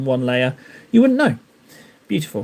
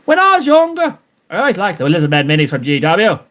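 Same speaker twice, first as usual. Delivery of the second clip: like Frankie. Retold or imitated. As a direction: redo the line as Frankie. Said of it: "I've got to speak it like Frankie".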